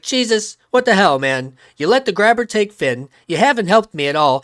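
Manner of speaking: loud, high exasperated rant; frustrated rant. Retold or imitated. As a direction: vent at him. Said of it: "she's like".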